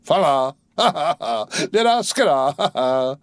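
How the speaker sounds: giddy sailor laughing and singing out; tipsy laughing. A narrator's reading. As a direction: let the fun bubble over. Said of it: "I feel funny".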